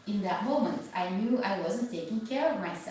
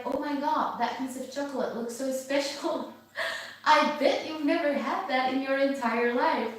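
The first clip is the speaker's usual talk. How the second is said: the ego as a giggly, tempting little voice; 3 semitones higher than usual. Retold or imitated. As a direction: tease her with the chocolate, lightly voiced. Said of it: "my ego was triggered, and it was like".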